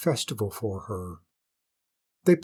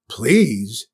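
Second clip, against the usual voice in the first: louder scornful echo of please; incredulous echo; 6 dB louder than usual. Acted. Queen echoing the hare's please, incredulous. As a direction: throw the word back in disbelief. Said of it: "echoed the queen".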